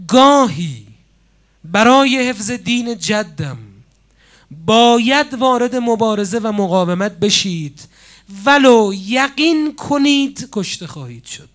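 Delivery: loud proclamation, opening word punched hard; a preacher declaiming the martyr's cry; proclaimed cry. Retold or imitated. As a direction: cry it out like a rallying call. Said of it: "یک جمله رو فریاد زد".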